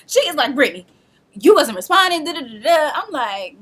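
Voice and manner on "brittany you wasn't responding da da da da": mild mock worried mother. Mother arrives on a mission.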